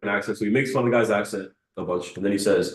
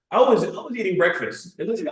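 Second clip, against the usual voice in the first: raised pitch, heated imitation; angry Andrew Tate; 7 semitones higher than usual. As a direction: play up his angry rant. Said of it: "he's, like, really angry in the video".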